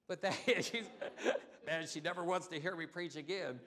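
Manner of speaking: talking through real laughter; laughing. Real, not acted. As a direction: laugh while teasing about daughter. Joking about his daughter.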